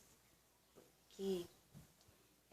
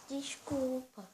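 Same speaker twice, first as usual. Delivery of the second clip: put-on slow, higher little-girl apology; 4 semitones higher, 4 dB louder, much slower than usual. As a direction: apologize like a small sorry child. A filha-boneca pede desculpa. (filha pedindo desculpa à mãe, voz de menininha lenta)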